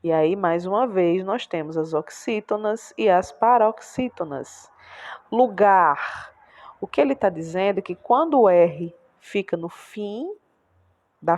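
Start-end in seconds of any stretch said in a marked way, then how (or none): 5.3-6.3 Lugar with a long, strong "gar"; stress on last syllable. Shown as a demonstration. Teacher reading out an R ending, stress on "gar" in Lugar. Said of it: "a gente faz mais força pra falar".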